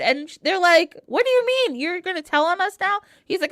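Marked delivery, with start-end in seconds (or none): 1.1-3.0 shocked outrage. Retold or imitated. Shocked retold reaction.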